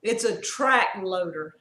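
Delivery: slow, mildly husky quote; slow, slightly put-on huskiness. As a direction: lightly imitate a husky voice. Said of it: "he said with a husky voice".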